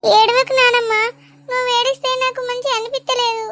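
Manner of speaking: tearful grandchild pleading with grandmother; close to tears. Acted. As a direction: plead as tears begin to rise. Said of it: "నాకు కూడా ఏడుపు వస్తుంది". (ఏడుపు వస్తున్న గొంతుతో)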